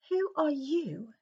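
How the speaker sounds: put-on slow, soft, high boyish voice; awed question. Harry blurts a hushed question to the giant. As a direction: ask it in stunned awe.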